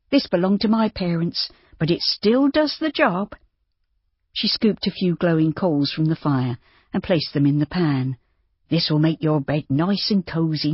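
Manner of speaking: a busy farm wife fussing kindly; lightly voiced farmer's wife, bustling. Narrator voices Missus Trundle.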